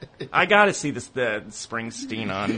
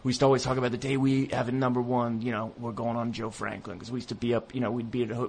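Impression of a singer; 3 dB quieter than usual. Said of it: "this is my singer impression".

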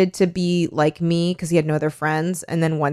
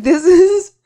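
mocking high voice; 12 semitones higher, 8 dB louder than usual. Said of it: "I was just like".

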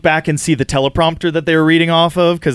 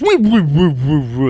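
failing hyperdrive noise. Retold or imitated. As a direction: imitate a hyperdrive that won't start. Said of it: "like the hyperdrive's not working".

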